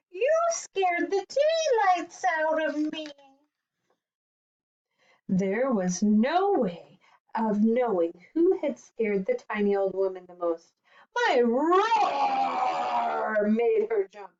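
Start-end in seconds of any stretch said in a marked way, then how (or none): 0.1-3.1 put-on high, frightened old woman; startled cry. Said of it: "cried the tiny old woman". 11.1-14.3 slow, drawn-out boast; boastful lion. Acted. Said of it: "boasted the lion".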